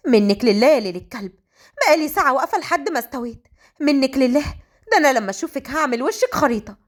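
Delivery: peevish complaint at a late friend; exasperated grumbling. Acted. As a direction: curse your late friend in comic annoyance. Waiting heroine grumbles at late friend. (بتذمّر وغيظ)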